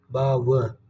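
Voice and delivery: बावजूद broken into baav, pause, jood; बावजूद drawn out in two separate parts; correct pronunciation, split. Shown as a demonstration. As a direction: say बावजूद syllable by syllable, baa-va, jood. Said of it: "क्या होता है?".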